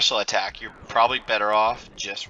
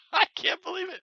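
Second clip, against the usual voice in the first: high, laughing disbelief; annoyed. Real, not acted. That's so annoying.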